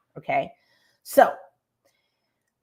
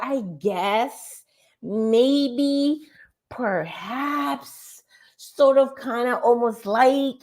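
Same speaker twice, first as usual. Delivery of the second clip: higher, wishy-washy hedging voice; mock hedger; 4 semitones higher, much slower than usual. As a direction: imitate someone who won't commit. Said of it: "people who talk like this".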